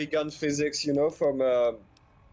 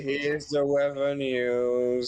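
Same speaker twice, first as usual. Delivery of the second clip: bored; 3 semitones lower than usual. Acted. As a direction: read the weather with no energy. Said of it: "why do you sound so bored".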